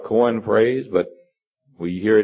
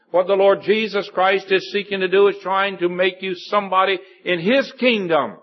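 raised, higher-pitched pulpit voice; earnest preaching; 7 semitones higher than usual. Real, not acted. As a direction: press the point home like a preacher.

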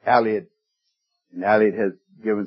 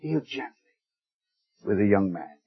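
much softer, a near-hushed echo of the plea; 4 semitones lower, 7 dB quieter than usual. Retold or imitated. Preacher echoing David's plea, hushed and tender. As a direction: let the repeat fall almost to a hush. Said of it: "And the last word".

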